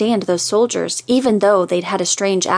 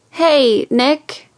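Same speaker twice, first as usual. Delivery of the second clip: just woke up, groggy; 6 semitones higher than usual. Acted. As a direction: answer the phone half asleep. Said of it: "she answered in a groggy voice".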